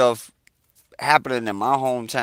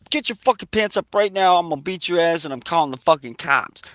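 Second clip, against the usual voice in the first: higher, pushed threat that speeds up at the end; mock angry threat; 6 semitones higher, faster than usual. Buddy Lou threatening the naked guy, angry. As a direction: lay into him like you mean it. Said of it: "He's like".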